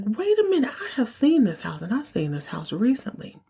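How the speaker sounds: high start of surprise, easing down; sudden recognition. Real, not acted. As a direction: catch yourself realizing it. Recognizing the house.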